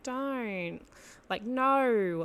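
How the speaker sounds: mock your own whiny Aussie vowels; whiny Australian twang on each word; Aussie whiny accent. Shown as a demonstration. Podcaster laughing at her own accent, mock whiny Aussie. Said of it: "that real Aussie whiny accent".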